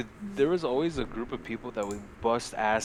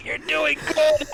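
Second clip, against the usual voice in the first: high, loud, slow cheery game praise; 6 dB louder, slower than usual. Retold or imitated. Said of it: "the game's like".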